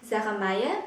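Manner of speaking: pitch rising upward at the end. Showing how to answer the phone with your name, rising pitch at the end. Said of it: "chúng ta đi lên ở cuối câu".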